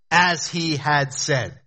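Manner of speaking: slow, weighty as leading the phrase; as he had said, each word set apart; stress on as. Shown as a demonstration. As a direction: lean hard on as and slow right down. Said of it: "You hear the emphasis?".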